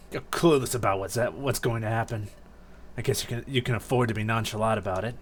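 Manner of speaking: lightly voiced aloof game character; cool, unimpressed captive. Grovyle chiding a clueless fellow captive, coolly dismissive.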